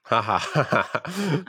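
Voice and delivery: a forced, hammed-up ha ha ha; mock laugh, rising at the end; fake laugh. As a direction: laugh on purpose, obviously fake. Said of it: "That was a fake laugh".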